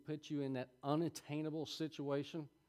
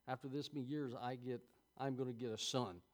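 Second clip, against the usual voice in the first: low, quiet disbelief; 3 semitones lower, 7 dB quieter than usual. Acted. Sarah to herself about having a son, quiet disbelief. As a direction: mutter it in understated disbelief. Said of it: "I could see the disbelief".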